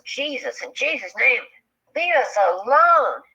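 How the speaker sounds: retold screamed prayer. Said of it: "he's screaming, and all of a sudden he just goes".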